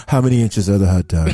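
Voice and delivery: lightly put-on illusionist questioning; Chris Angel. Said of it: "your Chris Angel impersonation".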